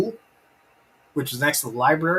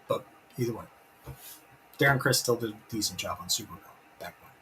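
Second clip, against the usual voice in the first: ordinary delivery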